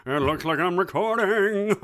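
high cartoon frog voice. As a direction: croon it like a singing cartoon frog. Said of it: "That's my W B Frog voice".

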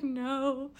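high tearful no. Retold or imitated. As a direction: squeak it out near tears. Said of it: "I was like".

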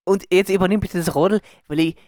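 hammed-up Tyrolean dialect; Tyrolean accent. Host handing over to co-host, Tyrolean accent. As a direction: complain in broad Tyrolean. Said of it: "mach mal das Outro auf Tirolerisch".

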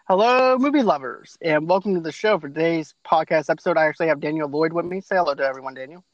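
upbeat show host voice; podcast host intro. Acted. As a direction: open the show like a radio host.

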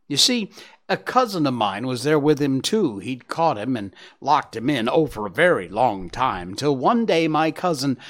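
chattering squirrel. Acted. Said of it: "the squirrel started to chatter".

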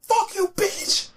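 high, slow, drawn-out put-on voice; mock petty insult. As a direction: stretch it out in a snotty high voice. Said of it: "And I'm like".

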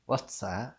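"what's" stopped before the S, barely Cockney; careful stop in "what's", accent slipping away; accent dropping. Shown as a demonstration. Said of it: "dropping the accent part now".

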